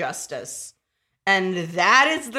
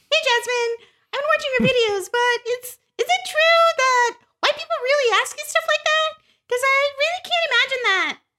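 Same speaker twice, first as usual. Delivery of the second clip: put-on very high-pitched office girl voice. Retelling a video creator's skit of a coworker questioning her, Katie voice. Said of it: "doing a voice of a white girl named Katie at work".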